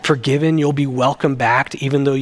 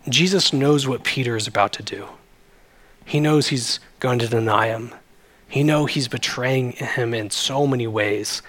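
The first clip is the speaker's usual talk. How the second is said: usual speaking voice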